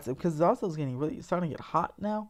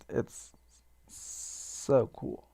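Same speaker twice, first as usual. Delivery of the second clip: said through a yawn; 3 semitones lower, much slower than usual. Real, not acted. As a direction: yawn while talking. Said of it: "Sorry for all my yawns".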